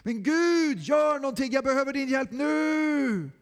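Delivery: loud anguished shout for help; full-voiced cry of despair; desperate shout. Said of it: "du ropar nu också".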